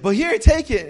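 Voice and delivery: loud, high acted urging; exasperated insistence. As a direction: press the gift on them forcefully. Friend insists on the gift.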